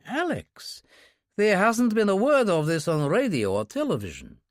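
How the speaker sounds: a worried handler pressing for answers; Yuri, anxious. Acted. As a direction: Yuri sounding alarmed on the phone. Yuri on phone with Kurbsky.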